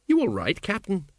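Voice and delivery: mildly worried check, lifting at the title; concerned. A narrator's reading. Sergeant checking on his captain, mildly concerned. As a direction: ask with a touch of concern. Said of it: "said Colon, all concerned".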